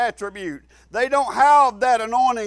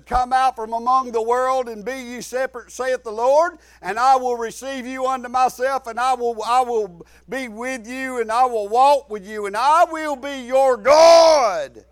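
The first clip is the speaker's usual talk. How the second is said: scripture preaching. Acted. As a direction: build the verse up to a shouted final word. Recites scripture building to a shout.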